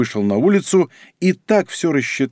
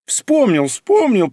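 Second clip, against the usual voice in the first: higher, brightening repeat; cheered up; 9 semitones higher, much slower than usual. A narrator's reading. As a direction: relief breaks into sudden cheer. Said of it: "повеселел Капелевич".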